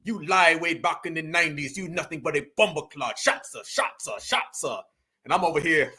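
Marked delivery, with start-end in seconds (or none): 0.0-4.8 mock Jamaican accent. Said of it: "your own people is over there saying".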